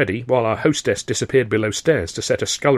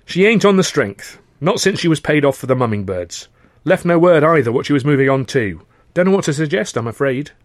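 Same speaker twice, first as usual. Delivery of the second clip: high, breezy upper-class chatter; chatty young toff; 5 semitones higher, 4 dB louder than usual. Acted. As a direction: play a cheerful, eager young gent. Freddie voiced in dialogue.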